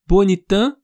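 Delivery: Bonitã terminando no A nasal, sem som de O; nasal vowel only. Shown as a demonstration. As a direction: corte a palavra no A nasal de Bonitã. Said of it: "Não tem o no". (Bonitã sem o final O)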